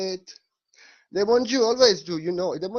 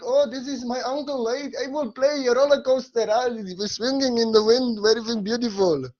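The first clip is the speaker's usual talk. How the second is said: Krishna; 6 semitones higher than usual. Acted. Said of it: "Krishna thinking".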